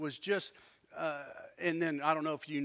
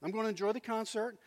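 softer, easygoing concession; mild and accommodating; 4 semitones higher, 4 dB quieter than usual. Retold or imitated. Husband giving lady the seat, mildly accommodating. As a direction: back down gently, no fuss. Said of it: "but no. I'm like".

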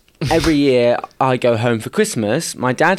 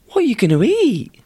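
dad voice; 10 semitones higher than usual. Retold or imitated.

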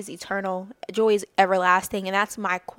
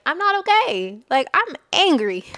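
honest admission; 8 semitones higher, 6 dB louder than usual. Retold or imitated. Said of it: "rather than just being like".

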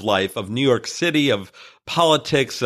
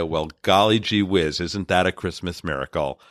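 folksy tourist talk; 8 semitones lower than usual. Retold or imitated. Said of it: "And I spoke their language".

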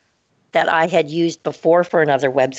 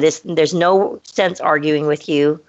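lower, calm and polite brush-off; very nicely; 3 semitones lower than usual. Retold or imitated. She politely fires the freelancer, calm and lower. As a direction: close the door kindly but firmly. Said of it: "just very nicely back".

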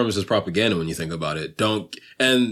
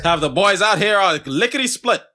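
higher vintage voice, laugh creeping in; mock old-movie threat; old-time bully; 8 semitones higher than usual. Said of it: "People used to talk like that".

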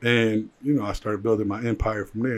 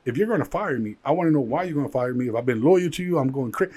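frantic pleading; 4 semitones higher than usual. Retold or imitated. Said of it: "And I'm like".

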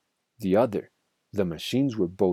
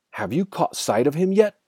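raised-pitch call; calling back; 7 semitones higher than usual. A narrator's reading. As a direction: call across the noise to a partner. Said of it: "Bean called back".

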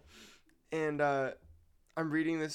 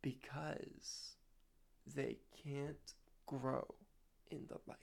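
hushed; 10 dB quieter, much slower than usual. Pretend. Mock-mysterious ogre answer.

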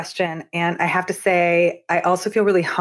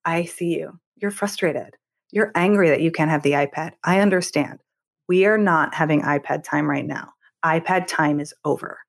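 gentle but firm, lower voice; calm validating parent; 3 semitones lower than usual. Retold or imitated. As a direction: acknowledge the feeling, then hold the line calmly. Parent calmly setting boundary to child.

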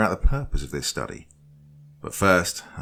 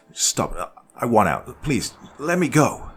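higher, louder pleading whine; whining plea to be set free; 5 semitones higher, 6 dB louder, slower than usual. Acted. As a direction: beg to be let out. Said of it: "I whined".

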